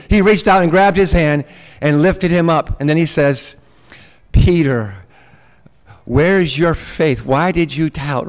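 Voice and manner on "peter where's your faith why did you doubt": slow, weary reproach, lightly exasperated; a touch of let-down patience; mild exasperation. Acted. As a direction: let a little exasperation into the question. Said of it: "a little bit of exasperation".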